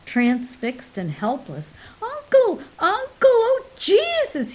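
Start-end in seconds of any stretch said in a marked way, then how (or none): 2.0-4.5 very high, loud whimpering cry of pain; gasping in agony. A narrator's reading. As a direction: cry out helplessly, begging for mercy. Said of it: "he gasped".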